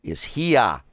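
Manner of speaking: here said as Boston "hiə"; Boston accent. Shown as a demonstration. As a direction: drop the r like a Bostonian. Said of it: "like a Boston accent".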